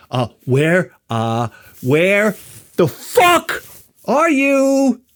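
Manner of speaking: halting, then a loud high outburst; temper breaking through. Retold or imitated. Husband failing to keep calm with wife, exasperated outburst. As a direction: stumble politely, then explode.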